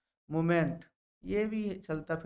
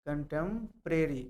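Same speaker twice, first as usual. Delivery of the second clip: कंटेम्परेरी said slowly, syllable by syllable; slow careful repeat; slower than usual. Shown as a demonstration. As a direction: draw out कंटेम्परेरी slowly so students catch each sound. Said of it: "कंटेम्परेरी यानी समकालीन". (कंटेम्परेरी को धीरे धीरे साफ़ बोलना)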